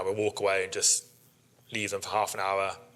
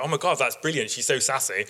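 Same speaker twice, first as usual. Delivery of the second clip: higher and thrilled; delighted; 4 semitones higher than usual. Retold or imitated. Onlooker loving the name Villanelle, delighted gush. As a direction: gush like a fan hearing the joke.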